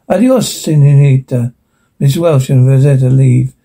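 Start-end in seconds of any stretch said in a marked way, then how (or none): 0.1-1.5 mildly wicked farewell, lifted at the start. Acted. Mouth saying goodbye to Rosetta, playfully wicked. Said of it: "Mouth, wickedly".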